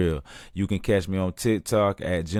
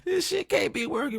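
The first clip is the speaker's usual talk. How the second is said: much higher, laughing in disbelief; can't believe the pickup lines work, laughing. Retold or imitated. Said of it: "I'm like".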